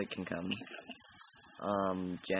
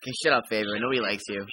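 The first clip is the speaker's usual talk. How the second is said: louder, mock-annoyed shut up; 9 dB louder, faster than usual. Real, not acted. Telling Favor to shut up after her teasing, loud. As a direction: bat the friend's teasing away.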